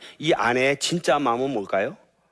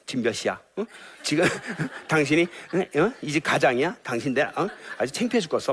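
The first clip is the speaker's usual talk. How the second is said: scolding late husband with mock anger; nagging wife; 4 semitones higher than usual. Shown as a demonstration. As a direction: nag him like an angry wife. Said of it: "이게 사망의 말이에요". (늦게 온 남편을 나무라는 아내, 화난 잔소리)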